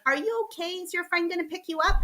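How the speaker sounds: high-pitched, lightly imitated kindly concern; sweet man. Airport man checking on a stranded traveler, sweet concern. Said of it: "this sweet man from the airport".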